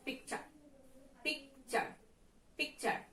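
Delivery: "picture" with the stress on PIC; stress on first syllable. Shown as a demonstration. Teacher shows students the word "picture", first syllable stressed. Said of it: "first syllable will be stressed".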